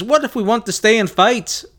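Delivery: high, hammed-up British schoolboy; atrocious British accent. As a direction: pipe up in a bad British accent. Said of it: "my accents are atrocious".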